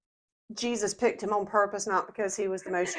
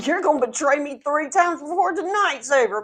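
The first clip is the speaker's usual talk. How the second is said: Jesus; 5 semitones higher than usual. Retold or imitated. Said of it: "what Jesus is really scoffing at".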